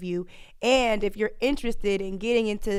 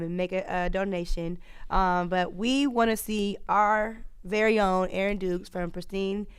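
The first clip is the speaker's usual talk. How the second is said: usual speaking voice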